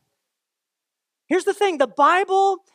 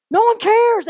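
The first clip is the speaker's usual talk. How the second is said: louder, higher burst; loud outburst; 9 semitones higher, 6 dB louder than usual. Real, not acted. Preacher brushing off date-setters, with a sudden loud cry. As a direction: shout it down.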